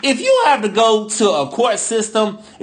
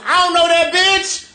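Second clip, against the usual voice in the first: sassy denial; 8 semitones higher than usual. Pretend. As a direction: snap it out with attitude. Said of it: "I wanted to be like that".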